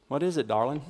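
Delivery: soft, sugary darling, Hallmark style; Hallmark-movie husband. Acted. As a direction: play it like a sappy TV husband. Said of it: "that's probably not how they talked".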